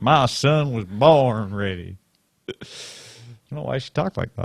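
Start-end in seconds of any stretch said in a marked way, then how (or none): 0.0-2.0 put-on southern accent, very slow drawl. Quoting what his mother told him about his son: imitating Mom's southern accent. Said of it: "but she had a southern accent".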